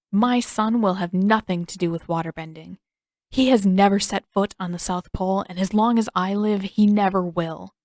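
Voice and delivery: a hint of a hard, protective mother; stern mother voice.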